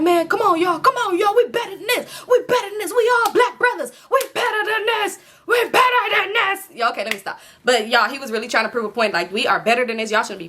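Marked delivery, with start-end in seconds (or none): 0.0-6.7 pleading peacemaker. Retold or imitated. A man breaking up a street fight shouts at the brawlers to stop. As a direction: beg the fighters to stop, rising to a yell.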